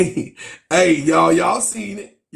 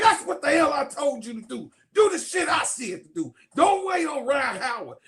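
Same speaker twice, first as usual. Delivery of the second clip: mock coach shout; 8 semitones higher than usual. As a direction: chew her out like a coach. Coach scolding player.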